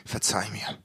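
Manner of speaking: barely audible, low and soft; quiet plea. Retold or imitated. Man quietly begging his girlfriend at dinner, soft and low. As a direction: murmur it under the breath to his partner. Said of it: "sagt so ganz leis vor sich hin".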